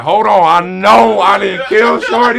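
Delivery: high, loud alarmed protest; retold panic. Retells panic she had died.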